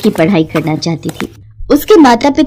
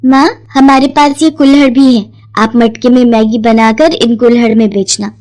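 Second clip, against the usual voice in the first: eager daughter. Acted. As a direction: sell the idea to mum with excitement. Daughter plans with mother.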